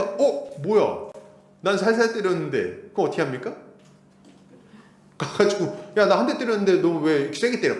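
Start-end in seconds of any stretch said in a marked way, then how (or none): 0.0-2.9 put-on a kid complaining. Child voiced in example. 6.0-7.7 put-on kid's protest. Child retaliating in example.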